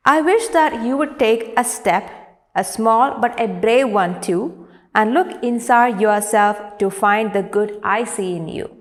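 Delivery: measured classroom poem reading; poem recitation. Acted. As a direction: recite it clearly, line by line. Reads the poem aloud.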